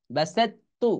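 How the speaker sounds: বাসাত্তু with doubled t, rising; বাসাত্তু recited as in Quran reading; recited Arabic. Shown as a demonstration. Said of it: "এরকম".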